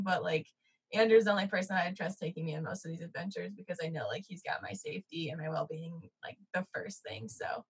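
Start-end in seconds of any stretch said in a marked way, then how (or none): 2.6-7.6 soft whisper. Real, not acted. Sincere trust in partner.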